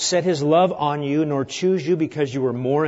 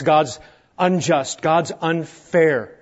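mock foolish complaint; much slower than usual. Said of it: "that's talk like a foolish person talks".

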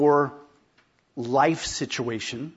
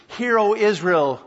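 proclaiming scripture; 6 semitones higher, 5 dB louder than usual. Retold or imitated. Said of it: "Moses writes in".

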